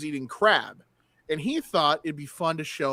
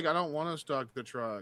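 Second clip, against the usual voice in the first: quieter mock sleep-talking voice; 9 dB quieter than usual. Retelling what one said while asleep: mock sleep talking. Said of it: "started sleep talking about a dream".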